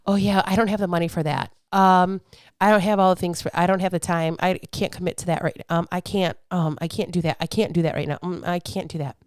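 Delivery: low, soft mock excuses; imitating a reluctant excuse-maker; making excuses. Voicing listeners' excuses after mock preaching.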